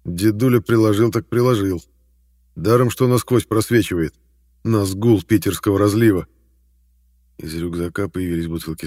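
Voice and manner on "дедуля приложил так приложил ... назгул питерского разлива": loud, brash banter; loud rough voice. Acted. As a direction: bellow it out cheekily. Shpala rants loudly.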